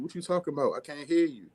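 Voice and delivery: put-on a teasing take on puzzled girls; mock girl. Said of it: "girls like".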